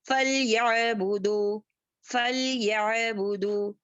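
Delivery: याबुदु with a light ain, no jolt; smooth ain. Shown as a demonstration. Teacher shows a gentle ain for students. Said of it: "आइन को मोटा नहीं करेंगे".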